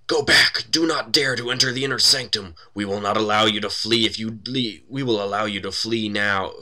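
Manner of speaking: loud, high, menacing shout; acted screamed warning. A magic mouth warns intruders off the inner sanctum, acted scream. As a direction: bellow a threat at intruders, hammed-up. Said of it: "A mouth on the wall opposite screams".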